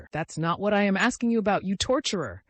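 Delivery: high, exasperated outcry; angry shout. A narrator's reading. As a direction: shout it, crimson with anger. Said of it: "I shouted".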